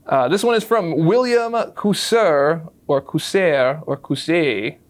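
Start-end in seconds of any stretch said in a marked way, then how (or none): 1.7-2.7 "Cousser" as a tentative first guess; first pronunciation guess. Shown as a demonstration. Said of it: "depending on how you pronounce that". 3.0-3.8 "Cousser" offered as another possible reading; alternative pronunciation. Shown as a demonstration. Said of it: "depending on how you pronounce that". 4.0-4.8 "Cousset" with a silent final t; French-style pronunciation guess. Shown as a demonstration. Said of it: "depending on how you pronounce that".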